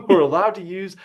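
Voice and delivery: laughing through a high whine; mock whiny reading. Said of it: "read it in more of a whiny voice".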